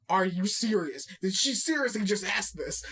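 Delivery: understated, lowish disbelief; stunned disbelief. Retold or imitated. Everyone reacting to her question, understated stunned disbelief. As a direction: ask it as if dumbfounded.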